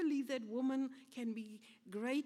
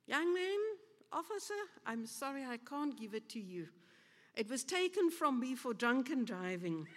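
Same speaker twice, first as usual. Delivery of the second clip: put-on old lady voice. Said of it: "she looked at him and she said".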